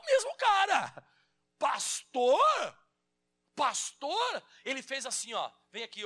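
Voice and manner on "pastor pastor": calling out. Retold or imitated. Calling out to ex-pastor.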